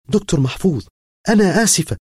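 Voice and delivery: the student Rania apologizing to her professor, high and pleading; pleading young woman. Acted. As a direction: beg forgiveness in a high, rising young woman's voice.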